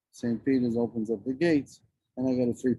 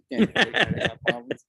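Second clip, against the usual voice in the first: higher, laughing through the words; 9 semitones higher, 4 dB louder than usual. Real, not acted. Man ribbing his best friend, laughing as he protests. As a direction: laugh while pleading your case.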